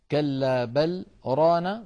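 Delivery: a short pause on بل before ران, slowly chanted; slow Quran recitation. Shown as a demonstration. Teacher demonstrating the pause on بل, slow recitation. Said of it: "قوله تعالى".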